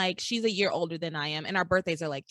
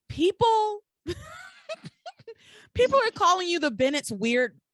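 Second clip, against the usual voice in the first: guilt-tripping; 11 semitones higher, 5 dB louder than usual. Retold or imitated. Retelling Kay guilting Charity.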